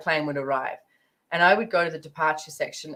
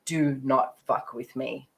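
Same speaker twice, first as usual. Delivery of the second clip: slow, firm threat; mock-tough warning to the taxi driver; forceful warning; slower than usual. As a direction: lay down the law slowly, a hint of menace. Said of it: "did this really forceful energy of this".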